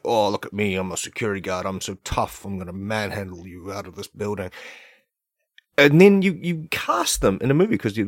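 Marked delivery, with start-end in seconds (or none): 0.0-4.5 mocking tough guard. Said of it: "being all like".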